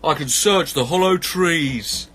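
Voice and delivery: volunteer slowly as a badger; keen badger. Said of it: "said the badger".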